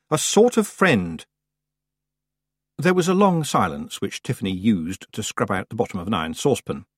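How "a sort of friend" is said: "A sort of friend." slow and falling, settled; grudging admission. A narrator's reading. Tiffany concedes to the old witch, slow falling admission. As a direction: give in flatly on "sort of friend".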